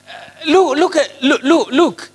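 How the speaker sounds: high, pleading "look, look"; urgent calling out. Real, not acted. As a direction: rouse the congregation to look.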